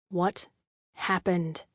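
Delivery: "What" and "happened" each pressed, slightly soft; emphasis on each word. A narrator's reading. Boyfriend pressing her to stop dodging, each word stressed. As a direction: lean on "What", then on "happened". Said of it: "The emphasis on each word".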